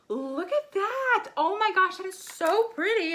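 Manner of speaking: high, gushing admiration; delighted awe. Real, not acted. Vlogger revealing glittery blush to viewers, delighted awe. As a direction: marvel out loud at how pretty it is.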